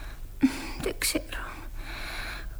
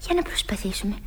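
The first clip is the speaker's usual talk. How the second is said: hushed and secretive; mysterious whisper; 3 semitones lower, 6 dB quieter than usual. Acted. Whispered attempt. (μυστηριώδης ψίθυρος)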